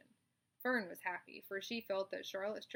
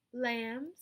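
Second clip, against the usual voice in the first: loud call; calling roll; 3 semitones higher, 7 dB louder than usual. Acted. Charlotte calls the lambs.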